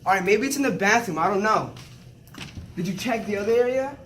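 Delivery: shouting to grandma on the phone; to someone hard of hearing. Acted. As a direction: raise your voice so she hears. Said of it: "Why are you screaming?".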